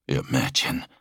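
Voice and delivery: low, measured opening; solemn warrior Sirion. Acted. Sirion begins confiding in his brother, solemn.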